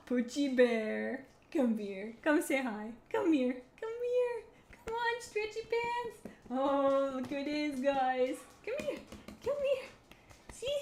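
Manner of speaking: high, slow, sing-song pet voice. Real, not acted. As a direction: coo at the dog. Calling her dog over.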